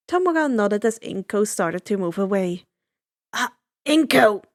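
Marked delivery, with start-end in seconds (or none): 3.3-4.4 ringing call. Acted. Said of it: "The decay user's voice rang out".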